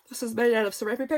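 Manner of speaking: words stretched by a real yawn. Real, not acted. Tired crafter yawning mid-sentence while showing a journal. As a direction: talk through a yawn. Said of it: "Excuse me, I'm yawning".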